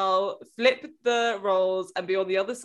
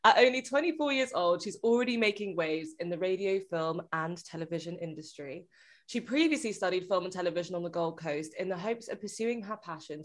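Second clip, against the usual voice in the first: podcast host intro. Acted. Scripted guest introduction.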